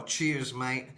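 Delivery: lightly exaggerated British accent; British catchphrase accent. How Mexicans hear Brits talk, exaggerated British accent. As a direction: say it as a chummy British stock phrase. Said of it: "we always say like that".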